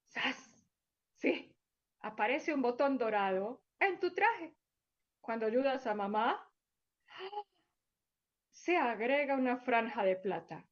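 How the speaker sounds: gentle storybook narration for little ones; storyteller voice for small children; story for children. Acted. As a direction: read it like a bedtime tale to kids.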